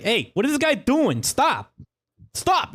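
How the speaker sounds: high, panicked shriek; scream. Acted. Npc shrieking for help while being roped up. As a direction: shriek for them to stop. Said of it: "he screams like".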